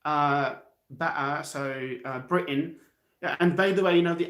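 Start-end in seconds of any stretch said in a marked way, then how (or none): 0.9-1.4 "better" with a glottal stop for the tt. Shown as a demonstration. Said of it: "they have little glottal T's". 2.2-2.8 "Britain" with a glottal stop for the t. Shown as a demonstration. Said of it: "they have little glottal T's".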